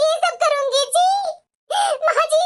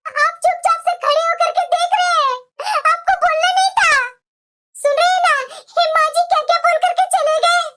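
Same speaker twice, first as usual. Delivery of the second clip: tearful appeal; 3 semitones higher than usual. Acted. Appeals to silent husband, crying.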